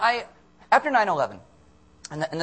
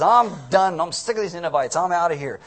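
mad; 2 semitones higher, 6 dB louder than usual. Retold or imitated. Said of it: "He gets mad and he slams the door".

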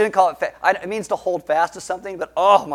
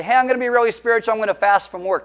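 higher, louder, fast and chirpy; mock pious employee; 6 semitones higher, 4 dB louder, faster than usual. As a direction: sell the boss on a holy day off. Imagined worker telling boss.

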